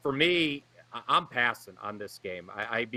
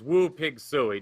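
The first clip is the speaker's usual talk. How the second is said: slow Arkansas hog call; Arkansas accent; 2 semitones higher, 4 dB louder, slower than usual. Retold or imitated. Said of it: "I was gonna try to do it in a better Arkansas accent, but I failed".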